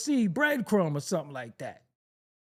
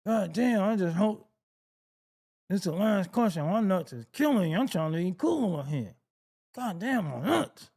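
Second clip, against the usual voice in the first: lightly put-on ventriloquist voice; mock ventriloquist. Man secretly hurting while trying to look cool, mock ventriloquist. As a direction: talk like a ventriloquist, pretending all is cool. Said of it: "Turn into a ventriloquist and shit like".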